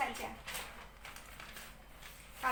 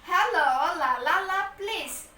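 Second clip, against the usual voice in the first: calling noisy class; 3 semitones higher, 4 dB louder, slower than usual. Acted. Teacher quiets noisy Cindy, Adit and Budi, calling out. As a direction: hush a rowdy class. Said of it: "maka si teachernya bilang".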